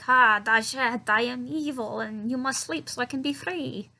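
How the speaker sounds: hammy evil spider-man, lightly voiced; mock villain. Spider villain's speech acted out.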